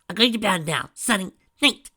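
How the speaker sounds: high, loud, bouncy; sing-song goodnight, loud and high; giddy. A narrator's reading.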